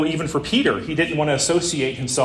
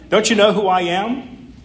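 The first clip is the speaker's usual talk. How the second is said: cross, indignant; 5 semitones higher than usual. Acted. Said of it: "he said crossly".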